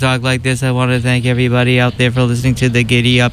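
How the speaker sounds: unvaried, flat, one-note droning monotone. Imitating people who talk in monotone: flat monotone. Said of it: "I hate monotone People who talk like this".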